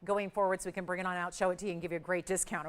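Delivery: talking through a face mask; muffled as if through fabric. Real, not acted. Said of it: "I'm sorry I'm muffled".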